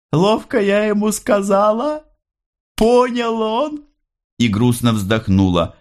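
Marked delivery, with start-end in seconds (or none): 0.1-3.8 much higher, pleased mother's voice; proud mother tells Andrey, high and delighted. A narrator's reading. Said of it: "широко улыбаясь". (мать довольно, очень высоким голосом)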